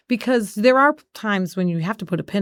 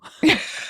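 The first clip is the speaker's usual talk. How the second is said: laugh; 8 semitones higher than usual. Real, not acted. Laughing at herself, crying story.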